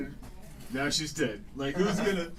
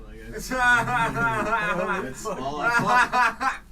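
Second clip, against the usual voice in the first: emphatic punchline; 6 semitones higher, 4 dB louder, much slower than usual. Acted. Comic emphasis on own punchline.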